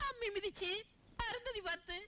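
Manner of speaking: high, plaintive lament climbing to a wail. Acted. Woman lamenting her wedding broken within hours, wailing. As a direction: pour out the grief, pitch rising at the end.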